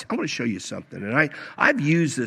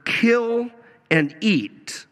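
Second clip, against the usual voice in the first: lightly acted commanding voice, pitched higher; voice from heaven; 5 semitones higher than usual. Preacher quotes the voice telling Peter to eat, lightly acted command. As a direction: hand down a command, drawing out the first words. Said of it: "a voice came to him".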